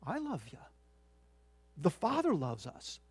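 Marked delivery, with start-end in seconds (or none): 0.1-0.6 very soft, higher-pitched voice; hushed, heartfelt declaration. Acted. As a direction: drop to a hush as if voicing God's love.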